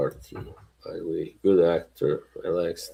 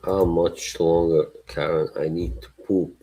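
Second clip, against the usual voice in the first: attempted British accent. Trying an accent on Karen, mock British. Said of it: "adopting a British accent".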